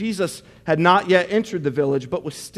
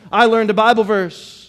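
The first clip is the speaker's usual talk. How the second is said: lightly voiced boast, a little raised; proud bragging kid; 3 semitones higher, 4 dB louder than usual. Kid brags about learning a verse in Sunday school, proud boasting. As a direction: announce it like a pleased Sunday school child. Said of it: "you're so proud of yourself".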